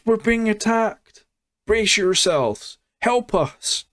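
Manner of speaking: mock alarm, calling out to the village; panicked villager cry. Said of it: "coming down the path and going".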